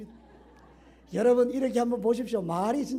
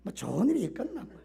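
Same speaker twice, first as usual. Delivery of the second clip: gloomy grumbling; 2 semitones lower, 6 dB quieter than usual. Retold or imitated. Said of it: "이러면 이게 이제 끝이잖아요".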